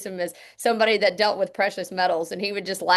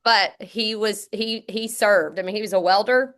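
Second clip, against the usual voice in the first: teary-eyed; 3 semitones higher than usual. Real, not acted. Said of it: "I'm getting teary-eyed".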